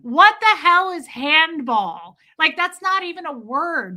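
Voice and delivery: loud, high-pitched retold disbelief; incredulous outburst. Streamer retelling her reaction to the handball answer, incredulous outburst. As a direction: raise pitch and volume in baffled protest.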